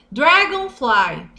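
dragonfly said slowly and clearly; drawn out for learners to repeat; slow model word; slow teaching. Shown as a demonstration. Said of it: "teaching vocabulary slowly".

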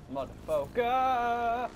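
Motherfucker. stretched very slowly; drawn out. Shown as a demonstration. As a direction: draw out Motherfucker. syllable by syllable. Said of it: "repeated differently".

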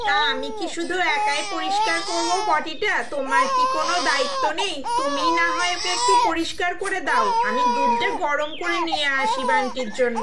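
put-on fed-up wife arguing about who cleans the baby; irritated complaint. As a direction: snap back at him, voice climbing. Wife quarrels over baby duty.

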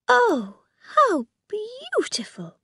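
high breathless whisper of wonder; delighted gasp. Acted. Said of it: "she cried".

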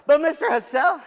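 high, loud, laughing "But Mister Hassell"; laughing mock whine. Speaker mocks his daughter's protest, laughing. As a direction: mimic her through a laugh.

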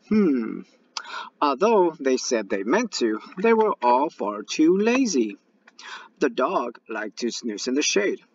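put-on lively read-aloud to kids; storytelling read-aloud. A narrator's reading. Teacher reading a story to her students, animated read-aloud. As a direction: read it to the class with bright lift.

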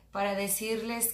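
speaking through fingertips; fingers at her lips. Real, not acted. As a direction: hand partly covering mouth. Seen 0: Fingers touch lips 0.1-0.8, then the hand rests on chin and cheek.

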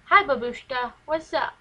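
cheery hello to fish. Retold or imitated. Girl greeting her fish babushka, loud cheery hello. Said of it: "I go".

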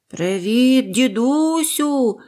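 put-on high, loud, chirpy child's greeting; little bird calling. First bird greets grandfather, high and loud. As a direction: call out brightly from the sky. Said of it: "закричала третя пташка".

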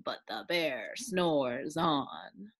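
slow, lingering bear refrain. A narrator's reading. Narrator's repeated refrain, slow and drowsy. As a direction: draw the line out sleepily.

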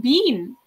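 "bean" with a long ee vowel instead of a short i; mock the narrator saying "bean" like the vegetable; narrator's odd been. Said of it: "She says, like, like".

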